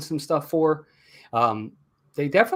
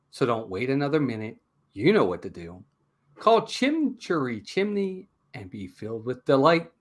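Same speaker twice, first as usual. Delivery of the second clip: ad read. Acted. Rhymed sponsor read.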